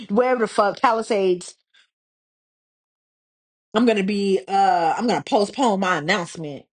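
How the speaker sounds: fake-apologetic celebrity statement, fumbling the excuse; lightly voiced mock celebrity apology; mock singer's announcement. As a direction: play a star stalling her fans with a flimsy excuse. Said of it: "And said".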